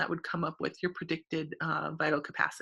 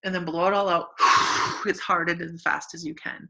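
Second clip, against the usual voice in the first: demonstrating forced exhale; 5 dB louder than usual. Shown as a demonstration. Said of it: "do it with me".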